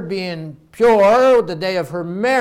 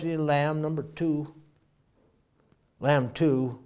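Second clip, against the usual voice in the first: still small voice; 2 semitones lower, 8 dB quieter, slower than usual. Acted. God answering David in a still small voice, hushed. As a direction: speak like a distant quiet voice from heaven.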